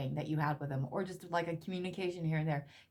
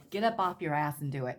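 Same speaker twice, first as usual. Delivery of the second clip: blunt command; 5 dB louder than usual. Retold or imitated. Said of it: "they're saying".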